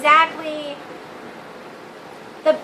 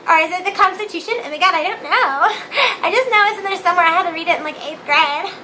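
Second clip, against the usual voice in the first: lightly voiced airheaded Valley Girl; ditzy and breezy, a hint of Valley Girl; mock Valley Girl rambling about the Constitution; 2 semitones higher than usual. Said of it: "I sound like a Valley Girl".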